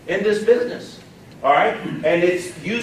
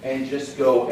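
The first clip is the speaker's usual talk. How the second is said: lower, unhurried, easy delivery; chilled out; 5 semitones lower than usual. Shown as a demonstration. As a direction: settle down and let the pressure go. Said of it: "you just gotta chill".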